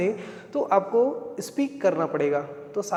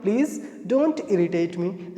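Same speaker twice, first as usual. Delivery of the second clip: very slow and deliberate; teacher repeating the answer slowly; slow repeat for learners; 2 semitones lower, much slower than usual. Shown as a demonstration. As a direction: stretch each word so the class can follow. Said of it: "क्या बोला आपने?".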